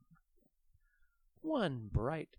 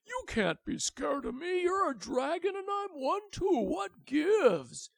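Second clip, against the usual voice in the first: high, loud indignant call; 13 semitones higher, 10 dB louder than usual. Acted. The big dragon calling the fleeing baby back, loud and indignant. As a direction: call after her, exasperated. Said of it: "called out".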